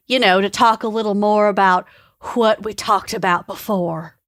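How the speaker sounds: Texan man. Acted. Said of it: "would you like to read for Alan".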